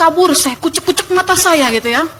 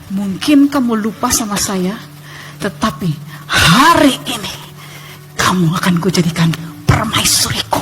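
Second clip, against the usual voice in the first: lightly voiced captor; 4 semitones lower than usual. Villain's claim, acted in retelling.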